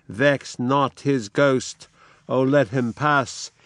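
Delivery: slow, hushed plea; solemn. Acted. Kent asking Edgar to let Lear pass, slow and gentle. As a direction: let him go gently, slowly. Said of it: "Kent says".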